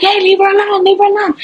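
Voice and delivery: imitating bystanders shouting him off; mock yell. Bystanders yelling at attacker.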